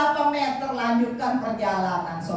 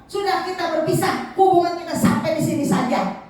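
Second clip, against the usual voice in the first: higher, fast annoyed scolding; angry king; 5 semitones higher, faster than usual. Acted. King scolds his patient minister, fast and annoyed. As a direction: rattle off the breakup in a huff. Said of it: "Marah itu sang raja".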